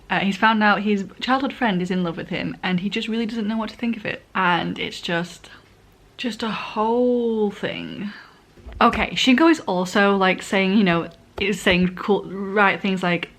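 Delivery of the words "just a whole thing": slow, exhausted whisper; sighing it out under breath. Real, not acted. Trailing off, overwhelmed.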